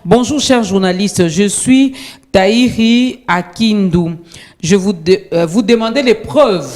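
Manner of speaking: slow, measured read-aloud; formal, drawn-out reading; reading out a message. Real, not acted. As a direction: read a viewer's message out deliberately. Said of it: "je vais lire".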